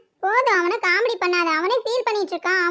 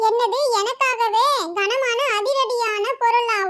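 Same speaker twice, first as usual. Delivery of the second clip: slow disbelief; slower than usual. Acted. Stunned by the note.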